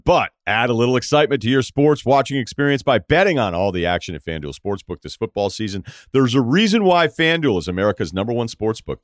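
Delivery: upbeat sponsor read, punchy on the offers. Acted. Podcast host to his listeners, selling the sportsbook, in a bright ad read. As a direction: sell the sportsbook offer with energy.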